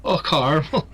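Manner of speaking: amused imitation of Newfie "CAR-mul"; Newfie accent. Player repeating friend's line, mock Newfie accent. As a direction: mimic a Newfie saying it, through amusement. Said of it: "in a Newfie accent".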